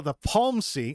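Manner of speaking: "palmsy" said as two syllables, r dropped; Massachusetts pharmacy. Retold or imitated. Mother's Massachusetts "palmsy," two syllables, no r. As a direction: squash "palmsy" into two beats with no r. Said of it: "she called it the pharmacy".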